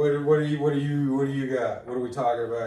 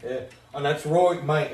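put-on a light London accent; London accent, mate; Idris Elba impression. Doing his London accent as Idris Elba for the co-host. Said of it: "doing my Idris Elba impression".

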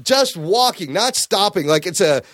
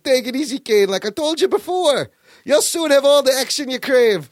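lightly played thick Irish brogue, pitched up; 5 semitones higher than usual. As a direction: put on an Irish villain's brogue. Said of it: "he's got a thick brogue".

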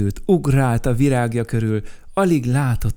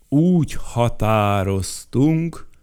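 stern announcement; 4 dB louder, slower than usual. Acted. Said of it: "mondta Bruckner Siegfried".

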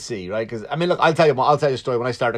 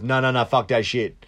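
lightly voiced rapper, hyped; a hint of a rapper egging the crowd on; mild hype-man rapper; rapper impression. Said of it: "I did a rapper impression".

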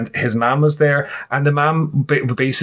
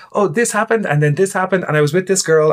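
higher-pitched, mock-excited gossip; gushing retelling; 5 semitones higher than usual. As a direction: reel off your exploits like gossip. Acting out gushing stories to cousin.

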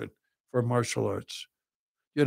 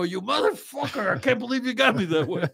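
laughing curse; 10 semitones higher than usual. Retold or imitated. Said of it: "I go".

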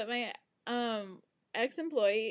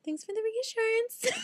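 sarcastic thanks; 13 semitones higher than usual. Retold or imitated. High far sarcastic quote.

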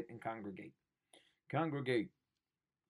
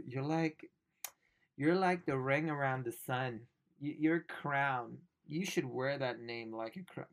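mocking Hanks; 2 semitones higher, 4 dB louder, slower than usual. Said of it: "don't try and go".

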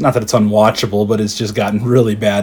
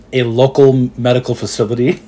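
wrestling announcer. Retold or imitated. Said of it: "like pro wrestling does".

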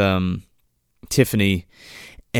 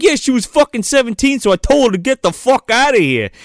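higher, louder defensive retort; mock indignant; 9 semitones higher, 4 dB louder, faster than usual. Explaining why the seventeen-year-old was thrown out, mock indignant. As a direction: push it out with acted exasperation. Acted angry explanation to frat brothers.

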